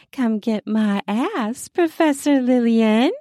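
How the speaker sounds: teasing, cheeky and provocative; bratty taunt. Acted. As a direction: taunt her like a brat. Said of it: "I taunt like a brat".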